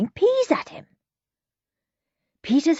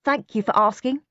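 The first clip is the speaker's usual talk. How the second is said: put-on higher, overly polite boy; Henry being polite; 8 semitones higher, 3 dB louder than usual. A narrator's reading. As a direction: play the too-good boy. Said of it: "he added quickly".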